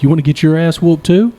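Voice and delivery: challenging retort. Retold or imitated.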